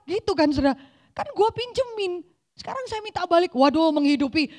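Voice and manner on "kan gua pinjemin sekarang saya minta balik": God asking back. Acted. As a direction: turn the question back calmly but firmly. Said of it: "Tuhan akan nanya". (Tuhan bertanya balik, pelan dan tegas)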